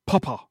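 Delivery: "Papa" with extra air in the mouth; airy "Papa". Retold or imitated. Co-host showing the way Sam says it, airy "Papa". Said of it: "extra air in his mouth".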